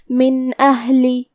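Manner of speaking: slow Quranic recitation of من اہلی with the noon said clearly and no nasal hum. Shown as a demonstration. Teacher recites for student, noon clearly voiced. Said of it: "نون کو ظاہر کریں گے اور بغیر غنہ".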